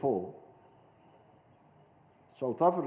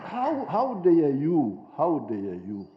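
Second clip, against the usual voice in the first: indignant; much slower than usual. Real, not acted. Speaker rebuking foreigners who lecture Africa, slow indignant outrage. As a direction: draw it out in outrage.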